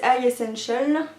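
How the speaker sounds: brand name said with a light, jokey English accent; a playful nod to an English accent on the product name; self-mocking English accent. Shown as a demonstration. Makeup vlogger naming the palette in a light mock English accent. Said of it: "avec mon super accent anglais".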